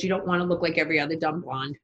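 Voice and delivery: retelling Joan's joke with a laugh; laughing quote. Retold or imitated. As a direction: laugh through the punchline. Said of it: "She goes".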